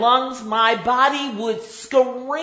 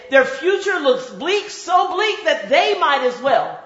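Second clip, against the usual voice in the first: preaching at full force; 3 dB louder than usual. Acted.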